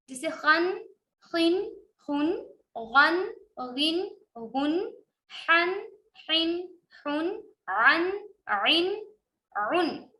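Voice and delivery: خن, غن, حن, عن with a clear n, not held; no ghunna. Shown as a demonstration. Teacher shows no ghunna: plain clear n. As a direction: say the n plainly, no humming. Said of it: "ان پہ غنہ نہیں ہوگا".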